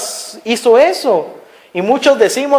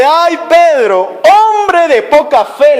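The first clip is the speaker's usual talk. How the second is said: slow, higher-pitched affectionate reproach; loving chiding; 6 semitones higher, slower than usual. Retold or imitated. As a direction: chide gently, drawing it out high. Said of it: "pero en un sentido amoroso". (reproche cariñoso)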